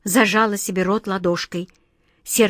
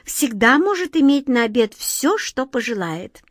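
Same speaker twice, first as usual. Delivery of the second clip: casually boastful, high and bright; offhand; 3 semitones higher than usual. Acted. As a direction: toss it off as if in passing. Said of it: "как бы, между прочим".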